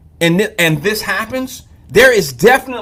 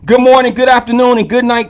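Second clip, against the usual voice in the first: bright greeting; 5 semitones higher, 6 dB louder than usual. Real, not acted. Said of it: "greets everyone at once".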